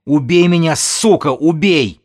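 high, loud, frantic yelling; desperate scream. A narrator's reading. Pregnant woman begs her captor for death, screaming. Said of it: "заорала беременная".

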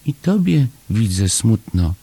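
high small voice with sympathy; compassionate. A narrator's reading. Chomek seeing Paszczak is sad too, high compassionate voice. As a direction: feel for him, in a little high voice. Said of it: "powiedział Chomek ze współczuciem".

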